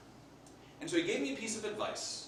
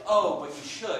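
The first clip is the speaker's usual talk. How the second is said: insistent coaxing; 9 dB louder than usual. Acted. Acted widow insisting, second take.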